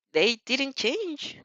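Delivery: slow, dragged-out scoff. Acted. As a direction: sneer it out slowly. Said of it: "Mineta scoffs".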